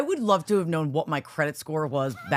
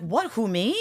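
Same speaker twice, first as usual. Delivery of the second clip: playing dumb; 5 semitones higher, slower than usual. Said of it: "it was more like".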